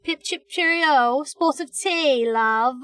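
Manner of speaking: drawn-out playful fake British, teasing; mock British accent. A Yank teasing British viewers in slow mock British accent. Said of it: "Yanks make fun of you".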